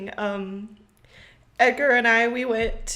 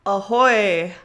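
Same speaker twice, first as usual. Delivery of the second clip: hearty louder pirate hail; pirate greeting; 6 dB louder than usual. Acted. Pirate greeting opens podcast.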